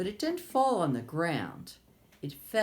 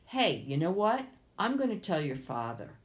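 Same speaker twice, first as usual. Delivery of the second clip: 1 tattling frog. Acted. Frog threatens princess.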